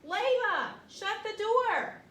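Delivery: high, loud mom yelling "Jake"; shouting mom. Acted. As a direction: call out like a mom at the door. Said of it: "shouted Mom".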